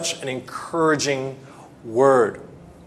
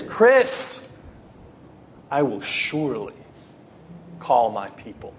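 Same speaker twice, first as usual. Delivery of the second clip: God speaking to Chris; 4 semitones lower than usual. Acted. Preacher voicing God calling him by name, gently. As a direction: call him by name, then promise gently and low. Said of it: "but then God says".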